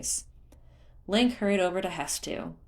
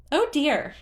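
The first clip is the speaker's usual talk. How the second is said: very high, halting ums; stall, caught out; flustered creature; 10 semitones higher, 7 dB louder than usual. A narrator's reading. Hestu dodging Link's question, stammering in a very high voice.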